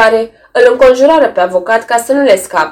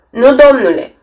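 meek, humbly lowered answer; humble reply; 4 semitones higher than usual. A narrator's reading. Picirili humbly answers the lawyer, meek. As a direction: say it with bowed humility. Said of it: "răspunse cu umilință Picirili".

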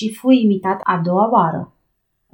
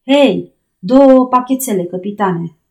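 calling out; 3 semitones higher, 5 dB louder than usual. Acted. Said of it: "repetă Paddy".

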